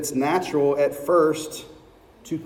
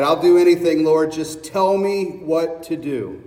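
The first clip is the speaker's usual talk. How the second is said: begging Jack; 3 dB louder than usual. Acted. Jack begs.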